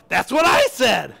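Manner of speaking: high, drawn-out exclamation; acted indignant yell. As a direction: cry it out, stretching the words. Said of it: "I yelled out".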